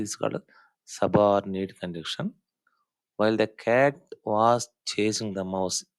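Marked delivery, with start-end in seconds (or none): 3.2-5.9 slow example reading. Shown as a demonstration. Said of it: "ఇది time clause".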